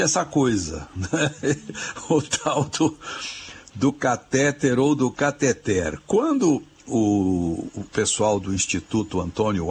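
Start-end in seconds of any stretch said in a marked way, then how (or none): 3.7-6.0 catéter stressed on TÉ, then cateter stressed on final TER; stress contrast. Shown as a demonstration. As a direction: set catéter against cateter by moving the stress. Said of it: "com acento agudo no E".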